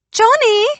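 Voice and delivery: put-on very high, loud, sing-song old English lady; floral English voice. A narrator's reading. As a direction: trill his name delighted. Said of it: "came a floral English voice".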